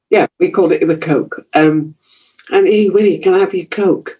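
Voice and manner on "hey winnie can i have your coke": put-on higher-pitched Yorkshire child's call; schoolkids begging. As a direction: pipe up like a kid begging a treat. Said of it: "they would say to her".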